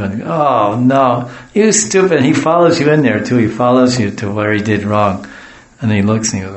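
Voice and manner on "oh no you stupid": dismayed dog owner, rising into scolding; louder, higher mock telling-off; mock exasperation. Owner finds the dog's mess.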